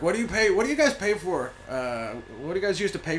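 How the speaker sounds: high, loud mock questioning of an audience; comic heckling impression. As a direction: imitate a comedian ripping into the crowd. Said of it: "Morgan was like".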